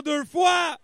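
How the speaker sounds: calling out bids loudly; auctioneer's chant, punch each price. Acted. Calls bids at charity auction.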